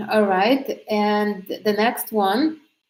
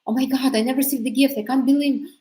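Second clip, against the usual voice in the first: a touch higher, gushing; mock overexcited; 3 semitones higher, faster than usual. Shown as a demonstration. Coach mocks the wrong over-the-top reaction, gushing. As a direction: play the over-the-top gift receiver. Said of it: "So you're not like".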